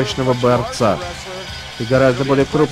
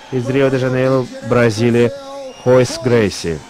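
ring announcer. Real, not acted. Announcing fighters in red corner.

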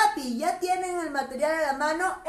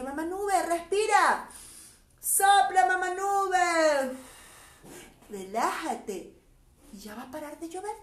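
calm the crying cloud gently; soothing; 2 semitones higher than usual. Acted. Teacher soothes mama cloud for the children.

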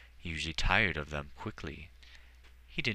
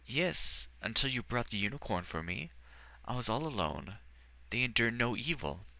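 put-on higher, eager small-boy voice; a shy boy, unsure how he feels; young boy voice; 6 semitones higher than usual. Boy confiding in the Archmagister, higher childlike voice. Edward recalling being alone.

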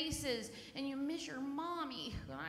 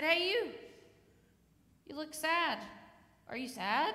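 lightly voiced friendly boy, higher and louder; retold boy calling out; 3 semitones higher, 5 dB louder than usual. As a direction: act out a kid hailing someone. Voices the boy approaching her.

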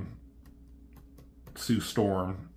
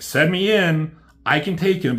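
a louder, higher mock Hulk boast; gruff Hulk demand; 7 semitones higher, 6 dB louder than usual. Hulk to the heroes, loud mock boast. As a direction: bark it out like a cocky brute.

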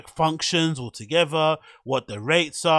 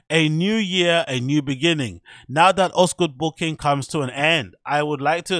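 put-on voice of a DJ in a German accent; 3 semitones higher, 5 dB louder than usual. Vlogger reads the DJ's Instagram caption in a mock German accent. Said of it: "my German accent".

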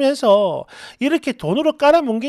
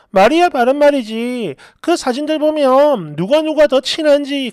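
mildly indignant complaint; acted annoyance. Friend complains she feels left out, mildly angry. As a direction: voice a friend's hurt, cross grumbling. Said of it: "이런 얘기를 하면서 막 화를 내길래".

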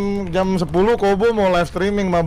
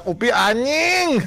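drawn-out, higher-pitched mock yell; retold yell; 6 semitones higher, much slower than usual. Player retelling his outburst over a broken PC, mock yell. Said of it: "gua cuma teriak".

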